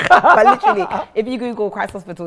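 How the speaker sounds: laughing as she talks. Real, not acted. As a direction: talk through a laugh. Laughing after host's joke.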